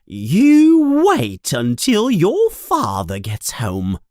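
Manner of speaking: screaming mother. Acted. Furious mother threatening her sons with their father, loud. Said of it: "she screams".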